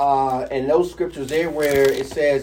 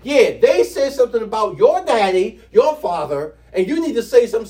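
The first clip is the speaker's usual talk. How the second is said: lively, higher-pitched goading; emotional appeal; 4 semitones higher, 4 dB louder than usual. Retold or imitated. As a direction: egg him on, imitating the advisers. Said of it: "They're appealing to him".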